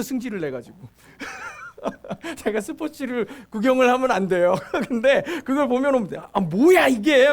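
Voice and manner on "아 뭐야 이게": slow, louder mock grumble at the TV; annoyed outburst. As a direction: grumble at the foul on screen. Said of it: "막 이렇게 하면서 막 화를 내요". (화내며 천천히 크게 투덜대기)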